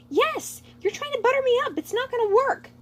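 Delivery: high, loud angry retort; angry outburst. Acted. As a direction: snap back in exasperation. Ludwig snapping at Lemmy.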